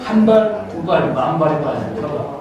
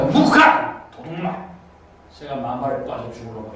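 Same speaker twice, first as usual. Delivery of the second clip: a fading mock curse; swearing grandma, dropping away; cursing granny; 2 semitones lower, 3 dB quieter than usual. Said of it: "이러면서 욕을 하는 거야". (욕쟁이 할매 흉내, 점점 작아짐)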